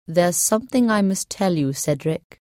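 grave old druid, lightly voiced; serious voice. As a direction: speak it gravely, like a warning. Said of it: "said the druid in a serious voice".

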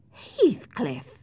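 scandalized outcry; shocked cry. Acted. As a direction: exclaim his name in shock. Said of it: "I cried".

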